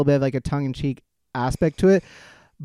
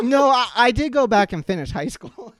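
laughing mock Garth; 5 semitones higher than usual. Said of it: "So it's like".

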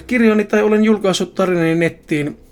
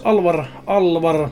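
slow muttering search; slower than usual. Acted. Searching the book for a name.

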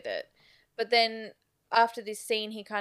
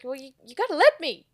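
mock desperate cry; 7 semitones higher, 10 dB louder, much faster than usual. Retelling Anton's desperate plea.

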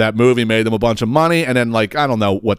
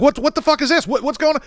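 mock panicked scream. Wife calling to her husband as men walk in, imitated panic. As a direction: imitate her alarm in a high, contained squeal. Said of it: "she starts screaming her husband's name".

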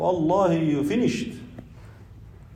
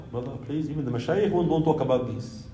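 soft, low, nervous plea to drop it; mock-timid scholar begging off; hushed pleading; 5 semitones lower, 9 dB quieter, faster than usual. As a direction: keep it down, as if afraid to be overheard. Acting out scholars avoiding the topic.

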